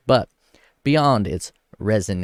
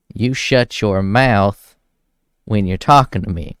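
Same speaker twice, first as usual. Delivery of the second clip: louder, slow, each word laid down hard; mock stern yell; 5 dB louder than usual. Quoting the singer scolding his wife, mock loud and stern. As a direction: bark the line out like the angry husband. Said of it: "And he tells her".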